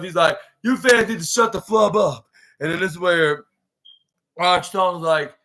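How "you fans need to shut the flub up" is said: mild mock outburst at hecklers; fed up. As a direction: tell the crowd off, pitched up. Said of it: "Roderick Strong had enough".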